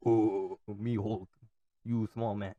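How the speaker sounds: lightly voiced, halting brute; Hulk. Showing how they sound in Spanish, mock Hulk voice. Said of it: "It's like me speaking the Hulk".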